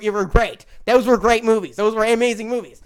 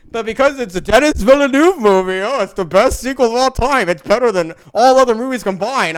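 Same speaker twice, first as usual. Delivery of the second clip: mock fan hype; 6 dB louder than usual. Mocking fans' hype.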